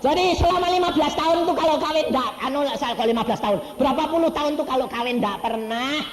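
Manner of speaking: high, loud, fast outburst; preaching exclamation. Real, not acted. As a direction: drive it home to the crowd. Pengkhotbah berseru heran. (seruan khotbah, tinggi dan keras)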